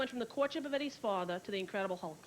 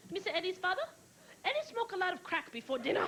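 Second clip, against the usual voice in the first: mock Asian housekeeper; 5 semitones higher, faster than usual. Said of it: "Imagine that show today".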